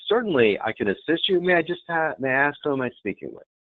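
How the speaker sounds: polite switchboard lilt; helpful phone agent. Shown as a demonstration. Model phone greeting to caller.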